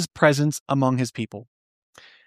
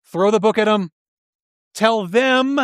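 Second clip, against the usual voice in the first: lightly voiced, higher, gloating inner cheer; mock gleeful cheer; 5 semitones higher, slower than usual. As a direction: play the self-righteous listener cheering punishment. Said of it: "we cheer deep down in our hearts".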